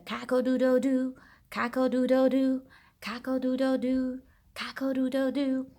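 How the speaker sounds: quick sung cock-a-doodle-doo; rooster crow. Acted. Rooster in the song.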